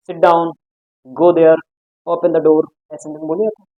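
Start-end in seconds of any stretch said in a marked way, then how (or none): 0.1-2.6 loud, firm order; loud command. Shown as a demonstration. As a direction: bark it like a command. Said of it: "तब तेज आवाज में बोलते हैं".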